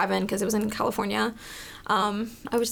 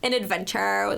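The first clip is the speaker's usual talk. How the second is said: hyped-up server; 3 semitones higher than usual. Retold or imitated. Server promising diners the greatest time, hyped up. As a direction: play the server promising guests a great night. Acting her pitch to diners.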